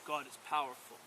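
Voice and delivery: bear growl. A narrator's reading. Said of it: "growled the bear".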